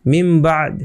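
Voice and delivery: মিম বাদ with n read as m before b; n changed to m. Shown as a demonstration. Teacher shows iqlab reading, মিম বাদ with m for n. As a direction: close the lips on the m of মিম, then a long বাদ. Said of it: "এটাকে আমরা কিভাবে পড়বো".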